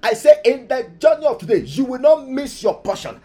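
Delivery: loud, high, forceful prayer leading; rally the congregation into urgent prayer; fervent preaching. Real, not acted.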